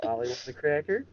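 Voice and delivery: squawking high parrot. Pretend. Friends joking around in a high parrot squawk.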